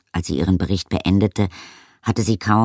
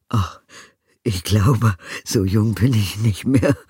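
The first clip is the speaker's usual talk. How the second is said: sighing; 4 semitones higher, 4 dB louder than usual. A narrator's reading. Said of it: "seufzte Knallwinkel".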